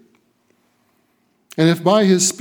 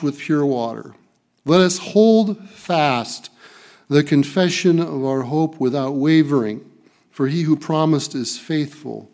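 measured, slightly raised reading voice; scripture reading. Acted. Pastor reading Hebrews to the church, measured and solemn. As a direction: read the passage to the congregation.

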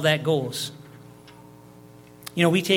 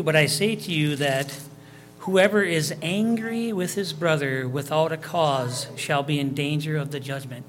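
raised, measured reading of scripture. Acted. Preacher reading scripture aloud to the congregation, raised and measured. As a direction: read the verse out to the congregation.

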